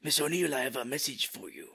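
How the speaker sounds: lightly hammed Japanese accent; mugger's Japanese accent. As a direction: imitate a master with a fake Japanese accent. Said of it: "same accent as the guy".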